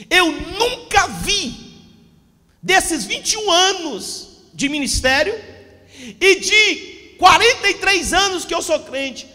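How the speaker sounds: preaching at full force. Acted. Pastor warning the church about Satan, preaching hard. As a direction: hammer each phrase home to the congregation. Preacher stresses his years serving.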